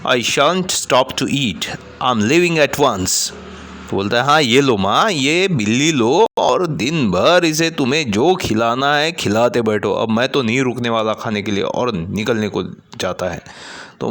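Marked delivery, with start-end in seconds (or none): 0.1-3.3 furious. Acted. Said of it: "वो furious हो जाता है". 4.2-11.6 furious son turns down the meal; angry. Acted. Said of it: "फिर गुस्सा आता है".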